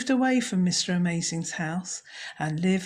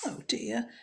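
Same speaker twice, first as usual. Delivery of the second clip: soft oh dear; 5 semitones higher, 6 dB quieter than usual. Acted. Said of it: "his wife said".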